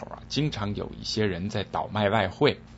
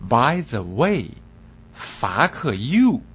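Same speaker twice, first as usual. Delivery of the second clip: mock-polite, slow and genteel; suave insult; much slower than usual. Tout suavely insulting the foreigner. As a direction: smile it sweetly. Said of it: "温文尔雅地说道".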